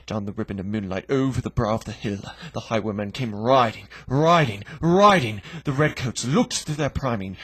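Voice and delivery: storyteller racing to the fatal shot; building climax. A narrator's reading. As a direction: drive the gallop to its peak.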